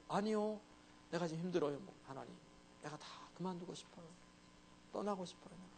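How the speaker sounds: soft, hushed plea to God; a quiet, worn-out prayer; honest confession. Retold or imitated. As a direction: confide your weakness quietly. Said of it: "이렇게 하나님께 이렇게 좀 고백해도 괜찮아요".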